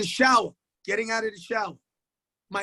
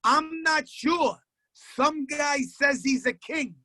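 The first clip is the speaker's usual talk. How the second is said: put-on slow, higher, unsure little-kid voice; lightly voiced small boy, puzzled; kid's answer; 3 semitones higher, slower than usual.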